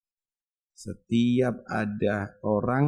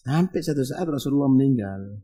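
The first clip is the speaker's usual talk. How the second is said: usual speaking voice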